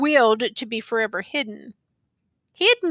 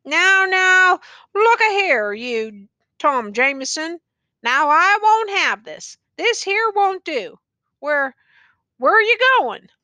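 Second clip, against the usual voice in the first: higher, louder pleading ramble; rambling; 6 semitones higher, 4 dB louder than usual. A narrator's reading. Tattered man pleads with the youth, rambling and higher. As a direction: plead with him, words tumbling. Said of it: "rambling on in idiot fashion".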